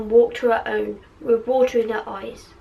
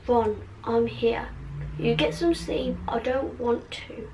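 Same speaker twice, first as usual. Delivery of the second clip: soft insistence; 7 dB quieter than usual. Acted. Hermione gently insists to Ron.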